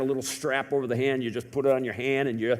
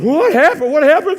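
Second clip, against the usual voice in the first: loud, higher, urgent repeated question; alarmed calling; 12 semitones higher, 13 dB louder than usual. Retold or imitated. People running out to the screaming boy call out loudly.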